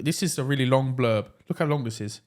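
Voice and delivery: normal talking voice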